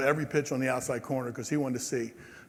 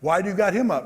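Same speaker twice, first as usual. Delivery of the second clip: higher, louder shouted question; retold yell; 5 semitones higher, 6 dB louder than usual. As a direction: yell it at the dugout from the mound. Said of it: "Jim would yell at him from the pitching mound".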